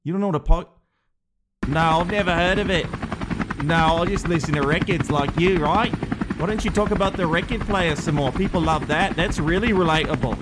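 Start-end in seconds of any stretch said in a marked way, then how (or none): 1.7-10.3 British reporter voice. Acted. The speaker teases host.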